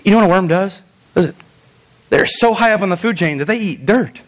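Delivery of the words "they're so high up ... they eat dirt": mock-impressed, dry sarcasm; sarcastic. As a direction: say it as if it were an honor. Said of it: "That's sarcasm".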